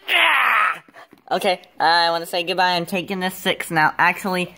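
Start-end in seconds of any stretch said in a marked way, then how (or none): 0.1-0.8 high "ah" sliding steadily down; falling cry. Acted. Abandoned one after calling Mama and Papa, falling cry. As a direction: cry out high and let it fall.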